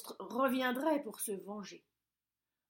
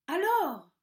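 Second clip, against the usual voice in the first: high, loud impatient bellow; ogre shouting; 7 semitones higher, 10 dB louder than usual. A narrator's reading. Ogre shouting impatiently outside the cottage. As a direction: yell it, out of patience. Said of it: "cria l'ogre".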